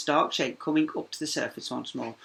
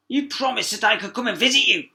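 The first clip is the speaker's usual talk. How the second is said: higher, louder frog; frog reminding; 9 semitones higher, 8 dB louder than usual. A narrator's reading. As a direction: remind her cheerily. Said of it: "the frog reminded her".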